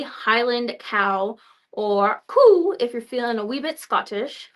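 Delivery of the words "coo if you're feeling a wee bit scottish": put-on light, half-hearted Scottish accent; a hint of amateur Scottish; attempted Scottish accent. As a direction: have a go at a Scottish lilt. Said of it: "I don't think I can do a Scottish accent".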